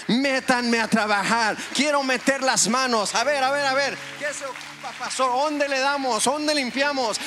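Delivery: eager volunteer. Retold or imitated. Church member pleading with the pastor to put him to work, eager and high. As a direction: play the keen member volunteering for every task. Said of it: "va a decir".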